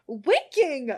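high, loud mock outrage; shocked squeal. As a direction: squeal at the page.

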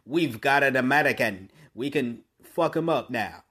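mock Russian captor, badly faked Russian accent. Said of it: "That was a terrible accent".

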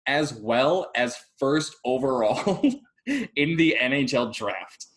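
real chuckle through the words; amused disbelief. Real, not acted. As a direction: laugh bursting in mid-phrase. Laughing at absurd possible outcome.

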